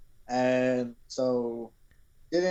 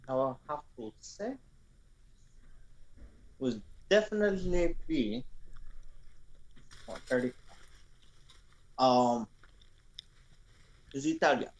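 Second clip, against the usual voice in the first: lightly put-on French accent, halting; a hint of a French waiter; mild mock French accent; 3 dB quieter than usual. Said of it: "French accent, please".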